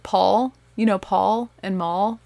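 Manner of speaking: put-on kids' "Paul" and "Maul", echoing her Southern vowels; mock-innocent quote with "Paul" and "Maul" for Pa and Ma; imitated Southern pronunciation. Mother quoting her kids talking about the Ingalls, Southern "Paul" and "Maul". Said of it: "they're like".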